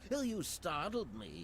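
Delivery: prim nerdy scientist voice; fussy, startled bookish man. Acted. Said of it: "the most stereotypical nerdy voice ever".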